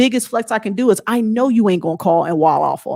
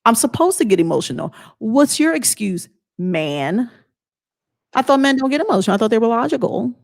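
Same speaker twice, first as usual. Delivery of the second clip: mocking retort; 2 semitones higher than usual. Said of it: "I'm like".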